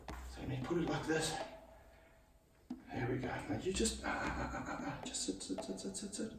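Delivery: very soft, half-whispered coaxing of an animal; barely audible, repetitive soothing; hushed coaxing. Real, not acted. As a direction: murmur it under your breath to settle the snake. Settling the snake down.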